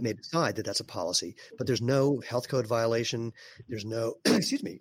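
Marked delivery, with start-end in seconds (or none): 1.6-4.8 rough throat, needs clearing; scratchy throat. Real, not acted. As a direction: speak through a tickly throat. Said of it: "what's going on with my throat".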